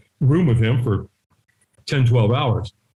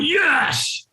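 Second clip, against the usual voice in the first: stronger yes; 11 semitones higher than usual. Retold or imitated. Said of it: "he could tell ... leaving a lot on the table".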